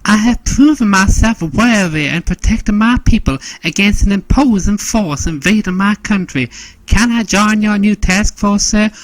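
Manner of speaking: high-pitched, gallant proclamation; strong bravado. Acted. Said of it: "with a strong bravado proclaiming".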